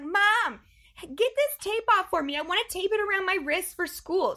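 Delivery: high, loud imitation of a demanding child; child's demand. Mom imitating her four-year-old asking for the tape. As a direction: play the eager little girl. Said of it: "And she's like".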